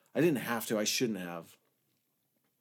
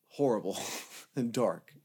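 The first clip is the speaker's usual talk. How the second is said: whispered. Real, not acted. Recalling a dark night.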